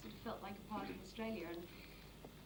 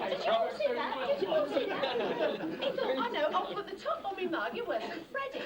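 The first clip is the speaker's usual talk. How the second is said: high, loud quacking duck voice; Donald Duck voice; 4 semitones higher, 10 dB louder than usual. Pretend. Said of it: "Impersonation of Donald Duck".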